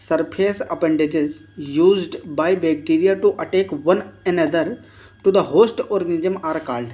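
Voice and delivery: very slow, deliberate question reading; reading an exam question. Acted. Teacher reads the quiz question to students, very slowly. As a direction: spell the question out slowly for the class.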